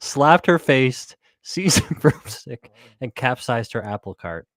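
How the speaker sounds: slow, drawn-out theatrical retelling; dramatic slow reading. Pretend. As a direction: savour each phrase slowly, for effect. Rereading the quote with relish.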